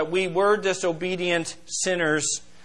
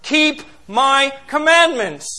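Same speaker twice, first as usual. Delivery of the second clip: slow proclamation; 5 semitones higher, 3 dB louder, slower than usual. Acted. Completing Jesus' command.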